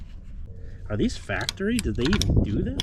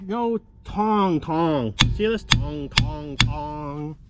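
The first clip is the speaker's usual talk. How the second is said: imitated clunk; much slower than usual. Shown as a demonstration. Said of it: "it makes, like".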